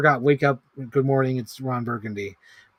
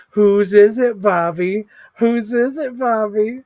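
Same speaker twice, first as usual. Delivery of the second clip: higher, louder demanding movie voice; Scary Movie quote; 7 semitones higher, 6 dB louder, slower than usual. Retold or imitated. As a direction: hammer the question like the film scene. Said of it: "The first one is goat".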